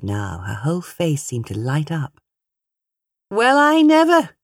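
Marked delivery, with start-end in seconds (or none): 3.3-4.3 put-on high, loud prim old lady gasp; high old lady exclamation. A narrator's reading. Mother teasing the young pair, high mock-shocked exclamation. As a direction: play the scandalised old dear.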